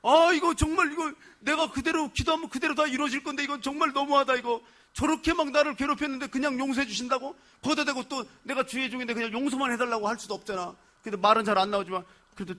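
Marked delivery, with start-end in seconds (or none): 0.0-9.7 aggrieved prayer. Retold or imitated. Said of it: "여러분은 왜 눈물이 나요?".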